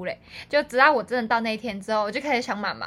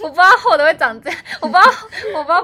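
put-on wronged child; 5 semitones higher, 9 dB louder, faster than usual.

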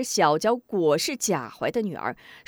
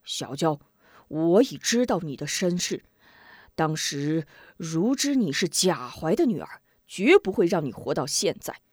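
lower, measured, a hint of a stern matriarch; 厉声训诫; stern old woman; 3 semitones lower than usual. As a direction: pass judgment gravely. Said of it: "厉声道".

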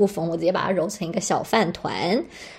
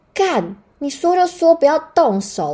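high, loud snap at the nurse; loud, high-pitched retold snap at the nurse; angry retort; 9 semitones higher, 5 dB louder than usual. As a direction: bite back, fed up. Snapping at nurse.

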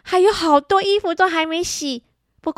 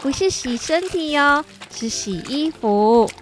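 gentle; 2 semitones lower than usual. Acted. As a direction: talk gently to a little one. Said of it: "鼓鼓温柔的对旁边". (温柔地提醒)

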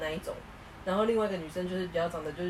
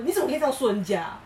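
mock offended; 5 semitones higher, 4 dB louder than usual. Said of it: "他生气耶".

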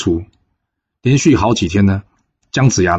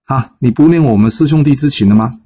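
a fellow disciple calling after him, building to indignant; more and more urgent calling; 6 semitones higher than usual. Acted. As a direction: grow pressing with each call. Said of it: "后面声音越叫越急".

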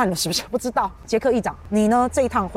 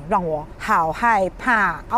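mock fear; slower than usual.

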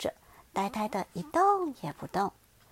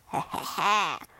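low, sly heh-heh-heh; sly chuckle; 5 semitones lower than usual. Acted. T-rex amused by the little one's question, sly chuckle. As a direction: snicker like a schemer.

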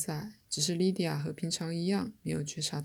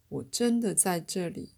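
slow, emphatic insistence; forceful. A narrator's reading. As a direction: press each word firmly. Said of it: "他用力地说". (用力地、缓慢地强调)

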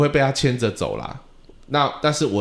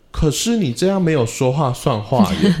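laughing; 5 semitones higher, 4 dB louder than usual. Retold or imitated. Teacher's gentle reply, laughing.

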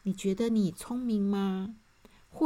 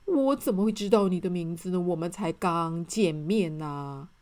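stumbling, halting words; a flustered man caught without an answer; stammering. Acted. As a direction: trip over the first word nervously. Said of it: "结结巴巴地说".

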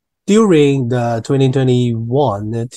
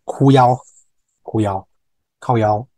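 Taiwanese curse word. Shown as a demonstration. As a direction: spit out 哭腰 like a curse. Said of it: "这个就是damn的脏话". (大声骂出哭腰)

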